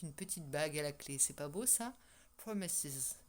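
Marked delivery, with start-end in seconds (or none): 2.4-3.2 English accent. Shown as a demonstration. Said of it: "avec mon accent".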